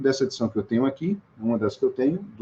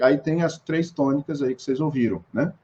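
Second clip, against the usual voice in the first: ordinary talk, nothing marked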